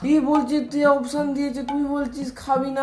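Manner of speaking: exasperated questioning. Acted. Uncle demanding what the cook offered, exasperated questioning. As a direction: fire questions in a high, exasperated voice.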